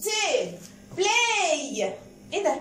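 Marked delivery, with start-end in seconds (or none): 0.0-0.5 "tail" with a clear letter-name A; long A sound. Shown as a demonstration. Teacher confirming the rule, long A in "tail". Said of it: "ال A لما جه وراها I بقت A". 1.0-1.8 "Play" ending on a held letter-name A; long A sound. Shown as a demonstration. Teacher introducing an AY word, long A in "Play". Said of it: "لما يجي وراها Y بننطق A".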